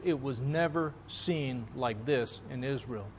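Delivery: hushed repeat. Retold or imitated. Preacher echoing the crowd's words back to the congregation, hushed. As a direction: let it sink in, almost under the breath.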